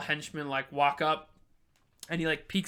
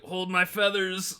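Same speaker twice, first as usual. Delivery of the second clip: imitated hungover character; 4 semitones higher, 3 dB louder, slower than usual. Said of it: "Arizo was hungover as fuck".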